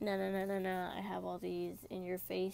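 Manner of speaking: normal talking voice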